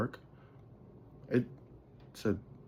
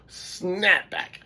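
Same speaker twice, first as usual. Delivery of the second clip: drawn out slowly; 10 semitones higher, 5 dB louder than usual. Real, not acted. Describing the snap back.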